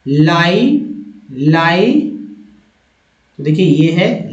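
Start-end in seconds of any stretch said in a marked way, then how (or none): 0.1-2.2 "लाई" drawn out as laa-ee; model pronunciation. Shown as a demonstration. Teacher showing how the first syllable sounds, model pronunciation. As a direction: stretch "लाई" as one long syllable. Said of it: "इसका उच्चारण इस तरह से".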